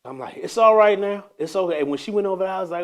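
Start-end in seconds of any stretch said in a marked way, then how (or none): 0.4-1.8 bright, reassuring lift to calm a queue; uplifted soothing tone. Retold or imitated. To frustrated shoppers, uplifted reassuring tone. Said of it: "uplifted my tone".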